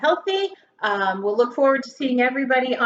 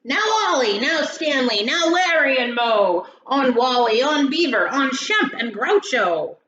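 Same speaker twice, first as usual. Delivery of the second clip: calling out names; 3 semitones higher, 5 dB louder than usual. Acted. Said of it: "He whistled and shouted".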